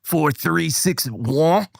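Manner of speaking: put-on slow, accidental French Canadian accent; Scottish attempt drifting into French Canadian; mock French Canadian accent. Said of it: "Nope, that was French Canadian".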